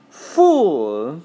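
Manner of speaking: savage, half-snarled insult; snarling. Acted. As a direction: spit it out with a snarl. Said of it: "a savage smile that was almost a snarl".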